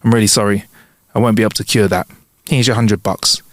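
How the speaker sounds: low-pitched, understated regret; resigned, sighing. Acted. Doctor giving up on the blind patient, low and resigned. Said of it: "The doctor sighs and goes".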